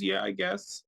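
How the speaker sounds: mock-reluctant, high-pitched giving in; on verge of tears. Wife giving in to husband's egg suggestion, mock tearful. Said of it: "then just starts crying".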